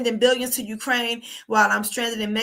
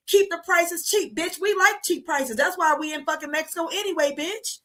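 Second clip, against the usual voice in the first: higher, taunting rant at the protesters; raised, scornful jab at greedy locals; mock telling off; 4 semitones higher than usual. Real, not acted. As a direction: scold them like you're right there.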